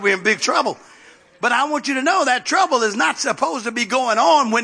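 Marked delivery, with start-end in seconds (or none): 1.4-4.6 rousing church exhortation; rally the congregation to action; fervent preaching. Real, not acted. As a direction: preach it with rising urgency, driving through the phrases.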